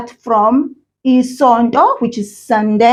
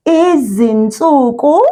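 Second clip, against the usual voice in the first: over enunciating. Shown as a demonstration. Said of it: "I'm going to say it one word at a time".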